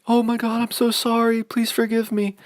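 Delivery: groveling apology. Retold or imitated. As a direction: ham up a desperate, begging apology. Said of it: "at least he wasn't like".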